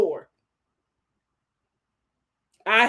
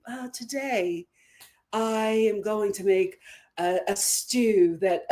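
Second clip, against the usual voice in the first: lady who lunches; 4 semitones lower, 3 dB quieter than usual. Retold or imitated. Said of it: "very lady who lunches".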